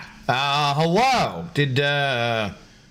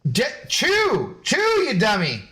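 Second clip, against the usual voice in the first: higher, playful scolding of the dog; teasing the dog; 8 semitones higher than usual. Real, not acted. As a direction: tease the silly dog in a sing-song.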